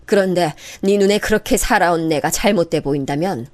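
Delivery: lightly voiced mother-in-law rebuking; grave old mother. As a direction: speak with wounded dignity. Hurt elder speaking gravely.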